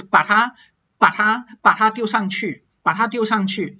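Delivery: 它 in 把它 said without an aspirated T; weakened ta. Shown as a demonstration. Teacher drilling 把它, ta losing its aspiration. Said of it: "loses its aspirated T sound".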